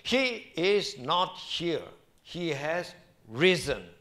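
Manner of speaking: very slow, weighty He is not here, He has risen; slow proclamation. Acted. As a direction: let each word land, slow and solemn. Proclaiming the resurrection slowly.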